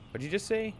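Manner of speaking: put-on harsh controlling manager scolding a girl; cold, bullying talent manager; abusive manager. Manager reacts to her name.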